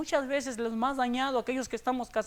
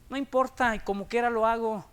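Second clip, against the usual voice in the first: defiant believer. Retold or imitated. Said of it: "hay quienes lo callamos".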